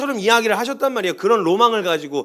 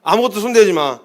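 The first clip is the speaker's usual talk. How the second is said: put-on protective boyfriend voice; 6 dB louder than usual. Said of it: "어?".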